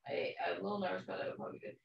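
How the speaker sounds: tinny, like through a tin can; boxed-in, tinny speaker sound. Real, not acted. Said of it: "you sound like you're in a tin can".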